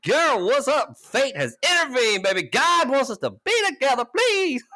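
high, loud mock begging; hammed-up pleading. Begging the girl to go out with him, high hammed-up pleading. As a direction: beg her like fate sent her.

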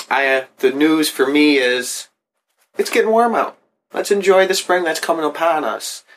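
chirpy anchor handing back; news anchor voice. Pretend. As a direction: read it like a cheesy newscaster. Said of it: "news anchor voice".

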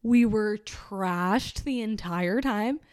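slow, smug party bro voice; bragging bro. Retold or imitated. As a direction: brag about getting trashed. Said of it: "They're like".

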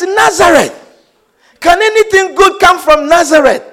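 high, emphatic disbelief; incredulous exclamation. Retold or imitated. Preacher repeating Nathanael's reaction to Nazareth, exclaiming. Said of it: "exclaimed Nathanael".

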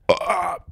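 half-successful belch; weak burp. Pretend. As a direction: force out a burp that disappoints. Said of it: "that would be a better burp".

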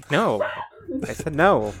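Hogarth refusing. Acted. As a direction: act out a kid pushing off a hug. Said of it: "Hogarth's like".

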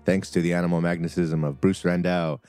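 lively campaign recap; game master narration. Acted. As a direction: recap the adventure with flair.

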